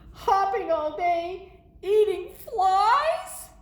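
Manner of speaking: high, loud, drawn-out dismay; horrified. Acted. Gerald imagining life as a frog, horrified. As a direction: stretch it out in mounting disgusted alarm.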